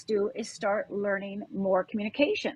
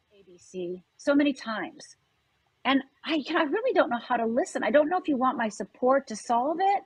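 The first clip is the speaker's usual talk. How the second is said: gentle scripted request; 3 semitones higher than usual. Shown as a demonstration. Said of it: "say something like the following".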